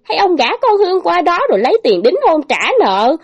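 stepmother's eager, high, loud pitch; gleeful scheme. Acted. Stepmother proposing the marriage deal, gleeful. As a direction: sell the idea with greedy delight. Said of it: "mặt mày hớn hở nói".

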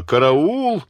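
высокий, громкий крик; завопить в испуге; орёт караул. Acted. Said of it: "заорала". (испуганный громкий вопль)

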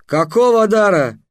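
slow, high stunned question; dumbfounded, drawn out. Acted. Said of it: "остолбенел самаршанец".

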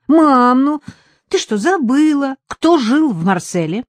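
put-on high, loud, pleading little boy; insistent young boy. Son urges mother to guess, high and insistent. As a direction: press her like an impatient kid.

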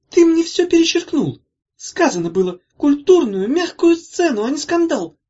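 high, loud furious yell; angry shout. A narrator's reading. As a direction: scream the accusation at your brother. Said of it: "крикнула Зозо".

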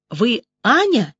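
slow, delighted question; glad. A narrator's reading. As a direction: ask it slowly, lit up with relief. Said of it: "обрадовалась я".

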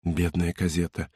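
hushed. Acted. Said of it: "прошептал он".

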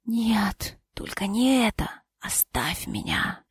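soft, slow whisper; weak whisper. Acted. Dying husband pushing his wife away, weak whisper. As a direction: fade it out to a breath.

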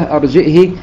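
"أرجئه" with a glottal stop and short final i; hamza, short kasra. Shown as a demonstration. Teacher demonstrating Ibn Dhakwan's reading, "أرجئه" ending in short i. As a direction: say "أرجئه" as arji'hi. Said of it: "بالهمزة وكسر الهاء بدون صلة".

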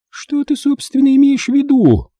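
very high, haughty woman; offended aunt's frosty question; cold enquiry. A narrator's reading. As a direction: ask icily in a high, affected voice. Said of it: "холодно поинтересовалась тётка Юстасия".

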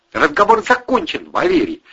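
high, loud, final; final angry shout. Acted. Ira ends the row with Valery, high loud shout. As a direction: slam the conversation shut.

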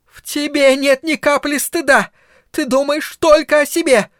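high, loud accusing cry; shouting. A narrator's reading. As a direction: scream it at her daughter. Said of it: "прокричала Карла".

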